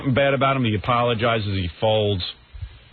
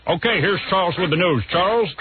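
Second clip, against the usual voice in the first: lightly put-on radio host handover; Imus; 3 semitones higher than usual. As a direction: toss it over to the newsreader. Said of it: "I'll do an impression of Imus".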